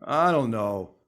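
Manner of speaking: lightly imitated hesitant speaker; playful impression, halting and unsure; Teddy. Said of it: "Now I'll imitate Teddy".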